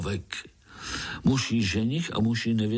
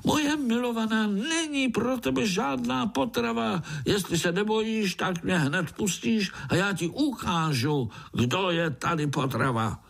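very high tiny-insect voice, boasting; high, cocky little fly threat; defiant fly groom; 12 semitones higher than usual. A narrator's reading. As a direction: squeak out a brave challenge. Fly groom challenges spider.

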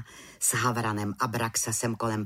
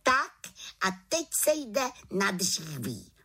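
exclaiming; 9 semitones higher than usual. A narrator's reading. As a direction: shout it to get things going. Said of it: "zvolala malá čarodějnice".

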